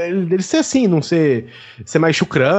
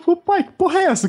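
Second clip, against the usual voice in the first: higher, startled call to dad; a son amazed to find a crowd around his father; mock surprise; 11 semitones higher than usual. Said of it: "eu virei e falei".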